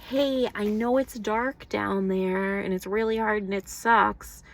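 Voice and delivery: lightly voiced God telling you it'll be fine; God comforting. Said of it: "God is showing us every step of the way, like".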